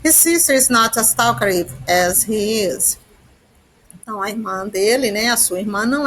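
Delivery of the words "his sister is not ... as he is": slow, careful English for learners; teacher reading an English example slowly to students; slow example sentence. Shown as a demonstration. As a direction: spell it out word by word for the class.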